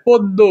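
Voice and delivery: পদ্য as "pod-do"; doubled d. Shown as a demonstration. Teacher showing an example, পদ্য as "pod-do". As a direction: hold the d in পদ্য, ending in o. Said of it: "দয়কারে দো".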